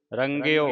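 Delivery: ਰੰਗਿਓ with the kanaura, rang-i-o. Shown as a demonstration. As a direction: stress ਰੰਗਿਓ's final o. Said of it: "ਕਨੋੜਾ ਲੱਗਾ ਹੈ". (ਰੰਗਿਓ ਕਨੋੜੇ ਨਾਲ)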